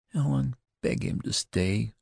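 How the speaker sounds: high, imploring plea. A narrator's reading. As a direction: urge Helen to beg him, pleading. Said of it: "implored Betty".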